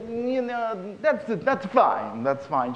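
mock Jewish old man. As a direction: shrug it off, a touch of old Yiddish uncle. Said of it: "the Jew says".

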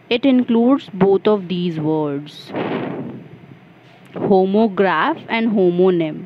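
very slow, each word apart; slow dictation. Shown as a demonstration. Teacher dictating an example for students, very slow. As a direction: spell it out slowly for note-takers. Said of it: "आप notes बना रहे हो तो आप ये सब अच्छे से लिख लीजिएगा".

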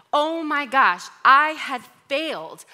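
high, loud gasp of alarm, retold; reliving the panic. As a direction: blurt it like it all just fell apart. Panic over a forgotten video.

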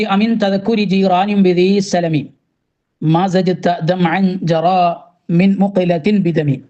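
slow, measured chanting of the Arabic verse; slow devotional verse recital; poem recitation. Acted. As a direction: draw out each word like reciting a qasida. Recites Arabic Burda verse line.

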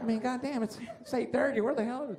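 mock uptight official complaining about lateness; pissed-off white organizer. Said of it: "They're always pissed off".

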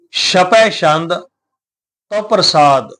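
ਛਪੈ ਛੰਦ drawn out slowly; slow recitation. Shown as a demonstration. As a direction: read the title slowly and clearly. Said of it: "ਉਚਾਰਨ ਕਰਨਾ ਹੈ ਛਪੈ ਛੰਦ".

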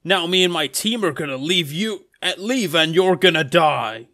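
lightly acted villain's threat; slightly forceful declaration of doom; Shadow. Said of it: "And then Shadow says".

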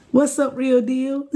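slow, high, through laughter; laughing. Real, not acted. Reader greeting viewers while laughing.

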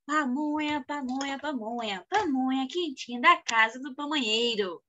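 lightly chanted street vendor's call; imitated pamonha vendor. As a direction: mimic a pamonha seller's repeated pitch. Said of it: "the pamonha guy was here. He was like".

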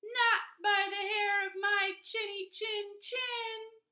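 high, loud, slow defiant cry; second javelina crying out a high, loud no; cried out. A narrator's reading. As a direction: shout the refusal slowly and high. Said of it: "The second one cried".

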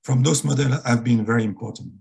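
strained, cracking voice; voice about to break. Real, not acted. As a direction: voice on the edge of breaking. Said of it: "Very sorry for my broken voice now".

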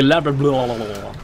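"lab-" dissolving into rolled blah-blah babble. Shown as a demonstration. Copying co-player's silly lesson, "lab-" then rolled babble. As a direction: trail "lab-" off into rolling babble. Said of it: "you gotta roll it".

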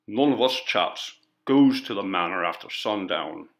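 lightly voiced rural working man; stolid, unmoved refusal; stubborn villager. Villager answers the coroner, stubborn and rustic. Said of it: "he repeated".

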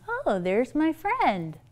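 lightly voiced child, drawn out; slow, a hint of a little kid. Child spots a friend while shopping, lightly childlike. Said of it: "my child says to me".

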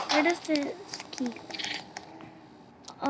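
slow quiet puzzling mutter; slow soft mutter. Real, not acted. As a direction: drop it to a slow murmur as you puzzle. Repeats the question much softer.

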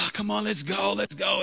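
acting out impatient urging; retold exasperation, voice lifted; frustrated urging. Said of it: "so I'm frustrated".

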